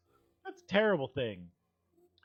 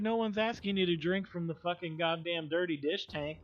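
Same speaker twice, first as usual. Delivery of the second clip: ordinary talk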